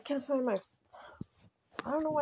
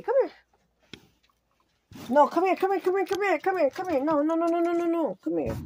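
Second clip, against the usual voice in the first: coaxing pet; 7 semitones higher, faster than usual. Real, not acted.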